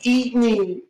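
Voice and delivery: restrained mock yell of a taunt; half-screamed in-character challenge. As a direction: call it out loudly, short of a real scream. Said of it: "Looks at the thing and screams".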